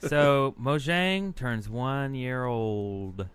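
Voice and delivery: slow monotone with odd gaps; flat robotic read, spaced words. Acted. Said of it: "Did you like that monotone voice?".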